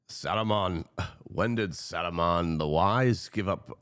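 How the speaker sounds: a hint of a slow wizard voice, lightly voiced; a lightly voiced old wizard asking slowly; Gandalf. Quoting Lord of the Rings to viewers, a lightly voiced slow wizard. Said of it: "I could go to Lord of the Rings".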